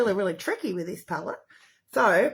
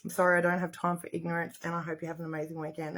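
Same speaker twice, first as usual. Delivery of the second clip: quick, lowered, politely final; retold courteous sign-off, hurried and low; polite brush-off; 3 semitones lower, 6 dB quieter, faster than usual. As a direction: end it politely, trailing softer. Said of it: "ended it politely and said".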